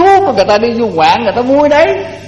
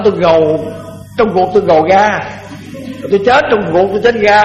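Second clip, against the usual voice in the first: Mekong Delta accent. Shown as a demonstration. Monk showing how western country folk say it, Mekong Delta accent. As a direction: say "rầu" as "gầu" like a Miền Tây villager. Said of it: "người quê mà ở miền Tây là nói".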